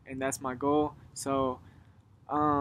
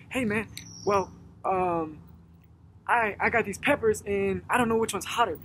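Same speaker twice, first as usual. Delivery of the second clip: higher, louder, eager stranger full of pep; excited customer; 5 semitones higher, 4 dB louder than usual. Retold or imitated. Retelling the upbeat shopper at the store, eager and higher. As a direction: play the happy pepper shopper bubbling over. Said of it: "he was super enthusiastic".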